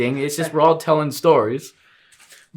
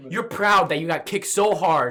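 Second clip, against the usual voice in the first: teasing shout. Acted. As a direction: shout it to rib him. Mock-accusing friend, shouting.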